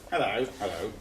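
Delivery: hello said in changing tones; showing how the same hello can mean different things; varied hellos. Shown as a demonstration. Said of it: "it's how you say it".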